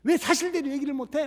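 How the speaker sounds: 왜 pitched high and stretched in a retold tearful cry; 왜 long and high, imitating a crying girl; tearful plea. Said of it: "막 울면서 그러더래요".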